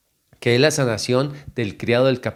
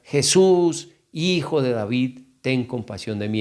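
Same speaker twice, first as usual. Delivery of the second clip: normal talking voice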